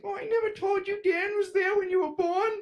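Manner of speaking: high, loud breezy mom. Retold or imitated. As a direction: toss it off like a casual mom. Mom quoted in falsetto.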